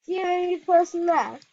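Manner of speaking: exasperated outcry. Real, not acted. Target scolding dead teammates, loud and indignant. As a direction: complain loudly that you're all alone.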